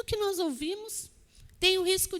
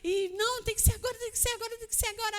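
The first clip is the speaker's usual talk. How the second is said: agitação imitada, voz mais aguda; mock pressa acelerada; 5 semitones higher, faster than usual. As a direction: repita aflito, cada vez mais ansioso. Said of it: "a gente fica toda acelerada". (aflição imitada, voz aguda)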